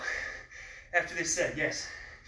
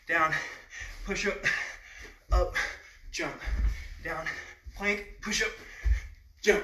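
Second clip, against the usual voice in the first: calling out reps; 3 semitones higher than usual. Real, not acted. Coach calls reps during burpees.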